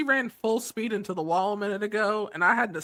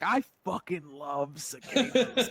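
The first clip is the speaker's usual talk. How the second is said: gushing; 6 semitones lower, 4 dB quieter, slower than usual. Retold or imitated. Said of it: "and I'm like".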